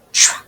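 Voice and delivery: tro split into its parts; teacher splits tro for the class; segmented sounds. Shown as a demonstration. Teacher sounding out tro for children. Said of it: "Next one".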